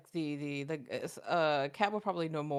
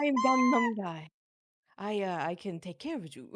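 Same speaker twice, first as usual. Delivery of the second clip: mock Gangnam guy. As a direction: play the smooth Gangnam flirt. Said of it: "playing Gangnam flirt".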